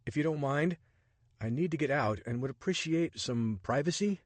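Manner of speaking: a hint of a startled man grumbling; Richard, exasperated. Richard's dialogue voiced.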